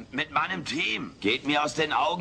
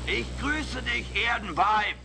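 higher, solemn alien greeting over the air; lightly hammed-up space announcer; alien broadcast voice; 8 semitones higher than usual. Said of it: "die Alf Rundfunk- und Fernsehgesellschaft geht jetzt auf Sendung". (leicht theatralische Außerirdischen-Durchsage)

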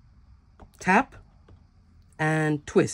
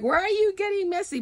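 mock puzzled question; 14 semitones higher than usual. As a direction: voice your bafflement in a high, held pitch. Acts out questioning the messy machine.

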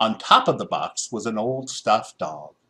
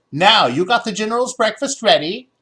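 high, thin ghostly voice; 10 semitones higher, 6 dB louder than usual. A narrator's reading. Ghost servant speaks from the doorway, thin and high. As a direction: float it like a faint ghost. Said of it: "ghostly sounding whisper".

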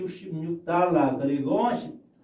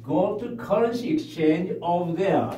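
slow, careful English model sentence; teacher demo read; 2 semitones higher, much slower than usual. Shown as a demonstration. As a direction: spell it out slowly for the class. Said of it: "먼저 제가 한번 읽고".

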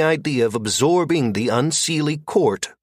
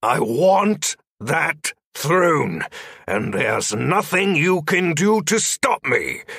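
losing control; 4 semitones higher, slower than usual. A narrator's reading. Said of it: "losing what small semblance of control".

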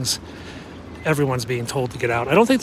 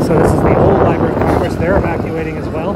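shouting over wind; 3 semitones higher, 7 dB louder than usual. Real, not acted. Talking loud outdoors in wind.

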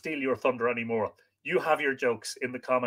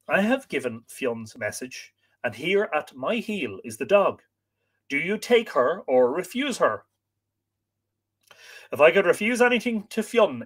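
lively, dramatic read-aloud; expressive storyteller with acted dialogue; story narration; 4 dB louder than usual. A narrator's reading. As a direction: read the tale with wide swings of pitch.

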